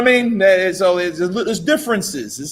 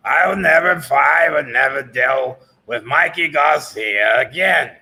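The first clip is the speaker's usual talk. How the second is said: mock quote. Quoting a boxer's vow.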